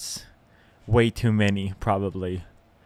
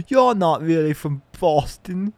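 raised-pitch mock British accent; 6 semitones higher, 4 dB louder than usual. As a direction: put on a hammy British voice. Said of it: "I'm just doing a British accent now".

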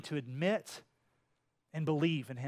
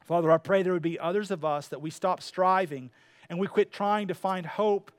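pastoral prayer. Acted. Closing prayer.

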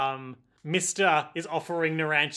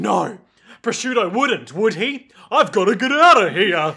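raised voice building to a loud yell; mock panic; 3 semitones higher, 8 dB louder than usual. Pesci panics as the mist spreads, mock alarm. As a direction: play a hammed-up frantic escape.

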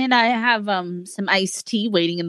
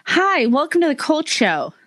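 imitating Valley Girl; 5 semitones higher than usual. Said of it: "perfect that voice for you guys".

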